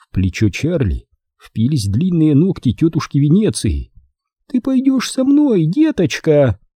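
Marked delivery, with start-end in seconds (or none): 4.5-6.6 spiteful, nasty coo, very high pitched. Aunt Venetia grabs Charlie by the shoulder, cooing in a nasty voice. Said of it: "вредным голосом проворковала она".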